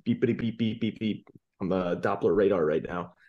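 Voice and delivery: doppler passby. Acted. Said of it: "great Doppler impression".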